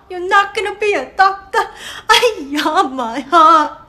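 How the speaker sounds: hammed-up wail of dismay; mock heartbreak. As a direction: fake crying over the news. Mom dramatic shock, cry heard.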